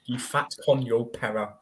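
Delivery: giggling mock Spanish insult; can barely get the rude words out for laughing; laughing through it. Joking Spanish insult to a friend, laughing. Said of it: "what I like to say in Spanish".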